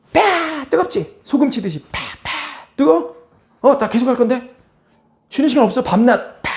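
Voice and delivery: high, gloating sing-song taunts; mocking tormentor. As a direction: jeer at someone burning. God mocking the damned in fire. (높고 고소해하는 조롱)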